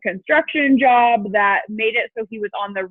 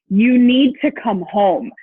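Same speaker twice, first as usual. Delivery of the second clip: slow, louder, each word pressed; insistent demand; 6 dB louder, slower than usual. Retold or imitated. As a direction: spell it out so he finally hears it. Urging husband to come home.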